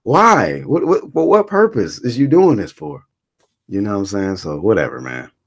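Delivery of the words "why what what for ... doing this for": high, loud, stunned squeal of disbelief; shocked disbelief. Retold or imitated. Watching a boxer's video, he shrieks in high, loud disbelief. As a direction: shriek it like you can't believe your eyes. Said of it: "I'm like".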